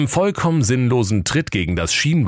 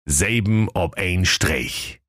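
slow motto read; slower than usual. A narrator's reading. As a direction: narrator voice, "Selben ob ein Streich" slow and ceremonial. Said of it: "geschrieben stand".

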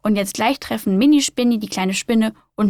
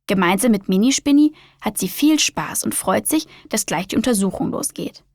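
lively storybook reading voice; reading to children. A narrator's reading. Host reading a spider story to young listeners, lively storyteller voice. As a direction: read it like a bedtime picture book.

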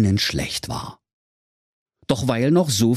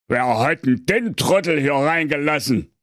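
lightly raised grumpy king; a hint of a peeved king; king's voice; 5 semitones higher than usual. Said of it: "da sprach der König".

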